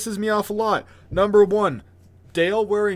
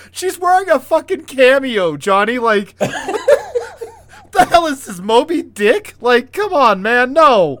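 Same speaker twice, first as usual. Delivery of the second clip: high, loud, laughing exasperation; exasperated outburst, half laughing; upset ranting; 6 semitones higher, 5 dB louder, slower than usual. Real, not acted. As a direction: protest in disbelief through laughter. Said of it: "I'm so upset".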